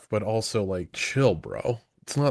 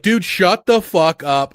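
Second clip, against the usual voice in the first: mock yell; 4 semitones higher, 8 dB louder than usual. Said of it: "And she's just like".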